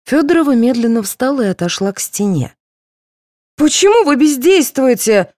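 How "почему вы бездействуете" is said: high, loud demanding cry; angry shout. A narrator's reading. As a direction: yell at the doctors for standing idle. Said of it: "закричала Пещерина". (высокий громкий упрёк)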